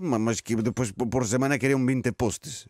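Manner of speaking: put-on flustered Portuguese in a comic Spanish accent; put-on Spanish accent, stumbling along. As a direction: make excuses in hesitant Spanish-accented Portuguese. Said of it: "estou com sotaque espanhol".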